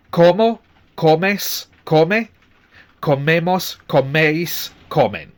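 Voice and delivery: como, comes, come, comemos, comeis, comen, each stressed on the second last syllable; conjugation drill. Shown as a demonstration. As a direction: recite the forms slowly and clearly for the class. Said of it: "pay attention to where the stress is".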